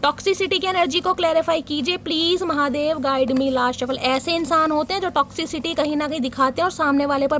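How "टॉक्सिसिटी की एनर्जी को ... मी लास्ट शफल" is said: a lightly chanted plea, slowed on the name; prayerful invocation. Acted. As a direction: murmur it like a ritual ask to Mahadev. Tarot reader invoking guidance while shuffling.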